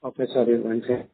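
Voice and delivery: muffled and hard to hear. Real, not acted. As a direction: speak as if through a covered mic. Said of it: "His voice is not audible".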